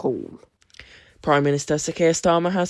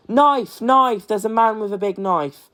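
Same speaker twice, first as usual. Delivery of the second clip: restrained, higher-pitched mock shout; raised-pitch imitation of someone shouting an alarm; imitated warning shout; 6 semitones higher than usual. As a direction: quote a panicked warning without full volume. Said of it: "ran through his carriage shouting".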